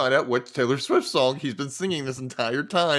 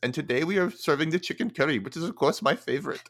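Indian accent impression; 2 semitones higher, faster than usual. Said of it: "I'm gonna do the impression of him".

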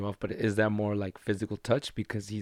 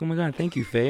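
high, delighted thank-you; delighted gush; 7 semitones higher than usual. Retold or imitated. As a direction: gush with pleasure at the compliment. Cass gushing at compliment.

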